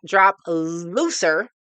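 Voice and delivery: careful slow looser; looser not loser. Shown as a demonstration. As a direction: stretch out looser so it isn't loser. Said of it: "not loser".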